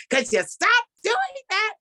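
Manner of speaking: high, mocking voice of the irritated son; annoyed son. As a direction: squeak it out like a fed-up grown son. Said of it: "he's like".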